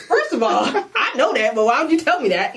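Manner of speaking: incredulous, laughing through it; half-laughing retort; laughing disbelief. Retold or imitated. Retold own reply, laughing.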